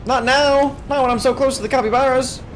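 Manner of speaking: high, loud desperate shrieking; shrieking jackpot winner. Real, not acted. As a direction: shriek in frantic protest. Slowed down near the goal.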